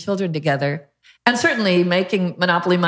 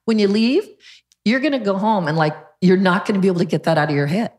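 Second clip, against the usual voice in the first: higher, eager teasing voice; mock excited trainer; 4 semitones higher than usual. Trainer teasing Dwayne, mock excited. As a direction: hype it up like the trainer. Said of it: "Derek goes".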